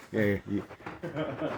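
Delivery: slow put-on old man voice. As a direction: play a very old grandpa. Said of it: "Do your old man impression again".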